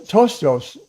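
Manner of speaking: "tostos" with no P sound, starting straight on the T; slow, careful "tostos", the Greek P left silent. Shown as a demonstration. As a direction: say "tostos" slowly as TOHS-tohs. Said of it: "the P is silent".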